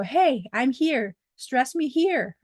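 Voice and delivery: put-on slow, drawn-out call from the accent mark; playful, stretched-out words; talking accent mark. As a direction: lightly play an accent mark calling for attention. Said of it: "put the accent to show".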